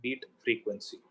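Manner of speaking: soft, quiet delivery for contrast; speaking softly. Shown as a demonstration. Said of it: "Now I'll speak softly".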